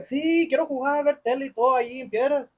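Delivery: high, far-off mock of dad; cartoonish father voice; imitating dad. Narrator mimics dad wanting the console, high mock voice. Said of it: "he's like".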